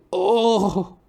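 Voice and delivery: put-on old man's oh. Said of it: "I was".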